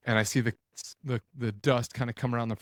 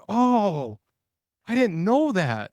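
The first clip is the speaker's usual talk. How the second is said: mock sheepish buddy; 9 semitones higher, 5 dB louder, much slower than usual. Buddy's sheepish quote, high.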